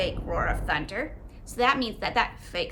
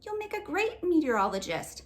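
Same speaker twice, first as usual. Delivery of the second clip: encouraging mom; 6 semitones higher than usual. Acted. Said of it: "as she tries to comfort me".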